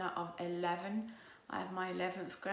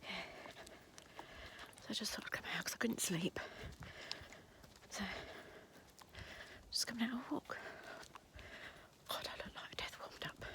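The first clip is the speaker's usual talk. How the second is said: hushed, half-whispered chat; whispering; 4 semitones higher, 7 dB quieter than usual. Real, not acted. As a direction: whisper it as if out late at night. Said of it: "Don't know why I'm whispering".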